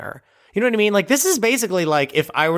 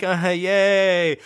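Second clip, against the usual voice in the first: half-hearted yay; much slower than usual. Retold or imitated. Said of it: "all the adults have to be like".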